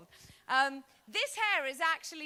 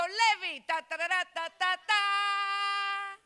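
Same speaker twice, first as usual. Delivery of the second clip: louder, higher hammed-up fanfare; a brash over-eager entrance; mock big opening; 6 semitones higher, 6 dB louder, slower than usual. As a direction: launch into the joke like a triumph. Comedian bombing opening line.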